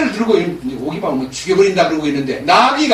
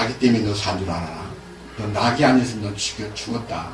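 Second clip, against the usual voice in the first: stern angel; 8 semitones lower, 4 dB quieter than usual. Acted. Angel threatens Balaam.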